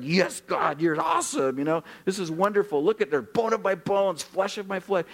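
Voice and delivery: thrilled, high burst of praise; excited shouted praise; excited Adam. Retold or imitated. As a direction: gush over her like a delighted man. Adam delighted at Eve's creation.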